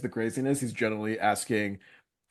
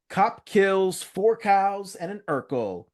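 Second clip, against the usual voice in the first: headline voice; 8 semitones higher, 4 dB louder, slower than usual. Retold or imitated. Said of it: "can see the headlines".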